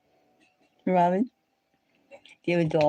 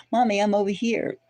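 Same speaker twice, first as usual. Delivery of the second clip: cat voice; 5 semitones higher than usual. Retold or imitated. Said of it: "and he says".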